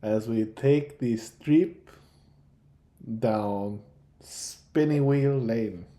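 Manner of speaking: lightly French, savoured slowly; French accent. Acted. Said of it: "French accent".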